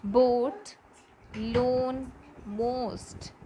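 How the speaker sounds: "Boat, loan, most" with long oh; each word said singly, held "oh"; O-A sound. Shown as a demonstration. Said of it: "That is O A sound".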